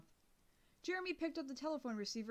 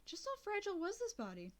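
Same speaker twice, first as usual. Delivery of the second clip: usual speaking voice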